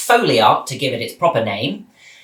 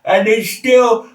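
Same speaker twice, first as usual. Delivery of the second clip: slow, raised, numb-mouthed mock voice; 6 semitones higher, slower than usual. Reviewer mimicking the hippopotamus after dental surgery, numb-mouthed. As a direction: talk as if the dentist has left your mouth frozen. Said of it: "sounds like he's had his wisdom teeth taken out at the dentist".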